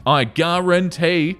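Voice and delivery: slow, drawn-out mock Southern guarantee; lightly imitated Southern drawl; Southern accent imitation. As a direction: ham up a TV Southern cook accent. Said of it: "in a ridiculous Southern accent".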